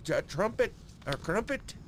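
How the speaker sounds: put-on high-pitched, jokey British accent; mock British accent. Riffing on dirty talk, mock British accent. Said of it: "I can't do a British accent".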